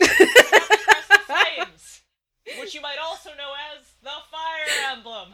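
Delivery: slow, grand proclamation, laughing; dramatic announcer. Pretend. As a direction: announce it like an epic title.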